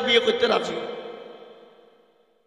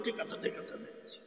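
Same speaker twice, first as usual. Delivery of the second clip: breathy pleading whisper, much softer; imitating a meek whisper; 20 dB quieter than usual. Preacher mocking clerics who plead with the angry crowd, whispered. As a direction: mimic a cowed cleric begging under his breath. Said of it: "হাত পা জড়িয়ে ধরে বলতো".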